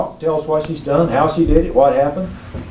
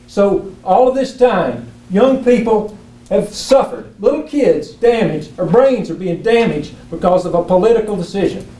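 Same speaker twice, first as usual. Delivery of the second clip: emotional; 3 semitones higher than usual. Real, not acted. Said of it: "And yes, I'm emotional about it".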